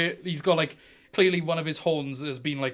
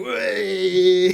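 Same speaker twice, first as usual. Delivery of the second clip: loud, higher whoop to get the crowd going; crowd-rousing whoop; 5 semitones higher, 10 dB louder than usual. Acted. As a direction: hype the crowd up. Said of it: "He's like".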